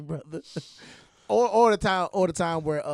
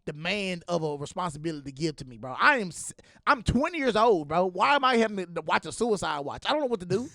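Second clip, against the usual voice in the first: exasperated protest; 3 dB louder than usual. Retold or imitated. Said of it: "I said".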